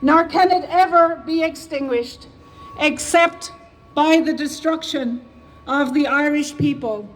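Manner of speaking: measured, solemn reading of a historic proclamation; formal proclamation reading. Shown as a demonstration. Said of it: "to now read the proclamation".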